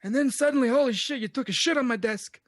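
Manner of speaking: mafia don impression getting worked up; hammed-up mob boss, pitch jumping up; Godfather. Don complaining about his soiled desk, as an exasperated Godfather. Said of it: "I can do a Godfather impression".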